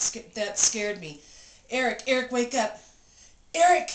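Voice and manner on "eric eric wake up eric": rising from urgent calls into a frightened yell of his name; retold alarm, ending in a real shout; panicked wake-up call. Frightened wife shaking husband awake.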